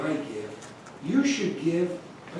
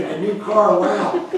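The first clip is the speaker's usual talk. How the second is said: put-on excited kids; 2 semitones higher, 6 dB louder, slower than usual. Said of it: "we kids got all excited".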